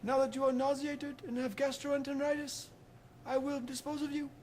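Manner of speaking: loud, triumphant wizard shout; spell-casting shout. Acted. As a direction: yell the killing curse. Dumbledore finishing off Voldemort.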